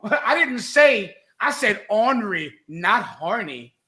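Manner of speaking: chuckling as you parody his denial; lightly voiced Nate, laughing; laughing mock of Nate. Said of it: "mocking Nate's line again".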